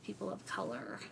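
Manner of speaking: whiny voice. Pretend. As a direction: whine it like a sulky objector. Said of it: "I'm intentionally affecting a whiny voice for this".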